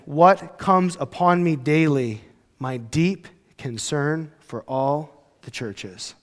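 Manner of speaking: slow, quiet, solemn reading of scripture. Retold or imitated. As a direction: let each word sink in. Quoting Paul's letter, slow.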